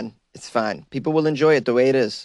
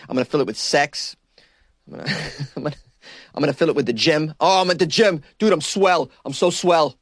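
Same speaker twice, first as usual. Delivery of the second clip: mock everyman voice; 3 semitones higher than usual. Voicing a generic person filling the void.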